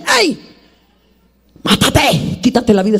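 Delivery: lightly voiced bitter wife; voicing Job's wife. Preacher voicing Job's wife telling him to die, lightly bitter. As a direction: toss it off like a worn-out wife. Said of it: "una mujer que le dice".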